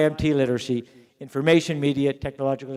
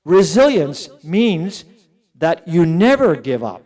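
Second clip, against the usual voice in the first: very slow, louder, every word weighted; slow emphatic statement; 5 dB louder, slower than usual. Shown as a demonstration. Lecturer to teachers, slowly stressing never give up. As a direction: spell out the lesson word by word. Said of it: "redefining resilience emphatically".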